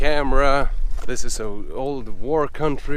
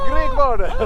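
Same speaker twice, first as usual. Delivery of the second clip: very high, joyful announcement; excited shout; 3 dB louder than usual. Real, not acted. Cyclist arriving at the Greek border, calling out high and thrilled. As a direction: call it out in triumph.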